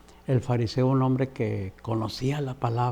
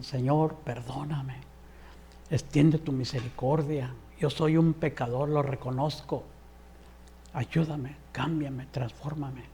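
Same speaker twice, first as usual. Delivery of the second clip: repentant weeping prayer. Acted. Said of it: "Y lloraba, dice".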